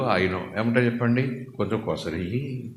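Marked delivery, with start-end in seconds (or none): 1.4-2.6 slow, low wheedling plea for a little extra; haggling customer. Retold or imitated. Customer begging the vendor for extra, slow and low. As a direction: coax the seller for a bit more.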